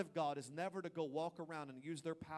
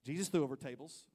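louder, laughing self-justification; mock self-justifying; 7 dB louder than usual. Husband excusing throwing things, mock loud. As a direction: justify the rage with a grin. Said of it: "it's like".

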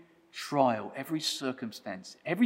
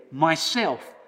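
loud and clear; 4 semitones higher, 7 dB louder than usual. A narrator's reading. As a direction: ring out the word "Myself" loud and bright. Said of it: "loud and clear and bright".

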